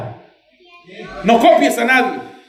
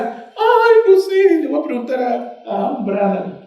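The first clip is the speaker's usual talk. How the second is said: mock helpless wail, starting high and falling away; clueless believer; 4 semitones higher, slower than usual. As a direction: stall in a high, dithering voice. Mimics clueless believer stalling for answer.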